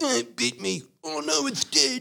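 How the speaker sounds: high, soft simpleton voice; small, high-pitched put-on voice; Mice of Men caricature. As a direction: play a hapless big lug in a tiny high voice. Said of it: "actually just does get mice and being like".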